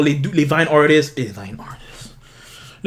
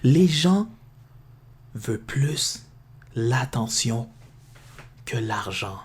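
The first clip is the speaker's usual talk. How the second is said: Les gens veulent plus l'attention que l'argent said slowly, word by word with pauses; slow emphatic replay; 4 semitones lower, 4 dB quieter, slower than usual. Shown as a demonstration. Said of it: "Je vais rewind le shit". (lentement, mot par mot)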